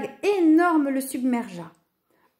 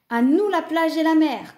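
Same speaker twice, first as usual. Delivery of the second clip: high, louder excited cry; eager cheer; 6 semitones higher, 5 dB louder than usual. A narrator's reading. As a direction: chime in with raised enthusiasm. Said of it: "renchérit Louve".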